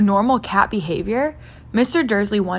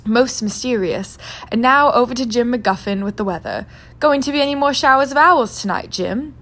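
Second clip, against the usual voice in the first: lightly voiced chirpy anchor; a grinning anchor passing to weather; newscaster handing over; 3 semitones higher than usual.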